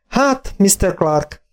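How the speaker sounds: very slow, drawn-out and stunned; slowly. A narrator's reading. Vet to the farmer, still stunned, very slowly. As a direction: stretch Hát out, still taking it in. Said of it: "mondtam lassan".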